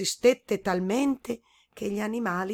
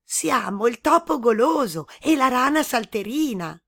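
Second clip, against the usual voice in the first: mouse and frog answering; 5 semitones higher, 7 dB louder than usual. A narrator's reading.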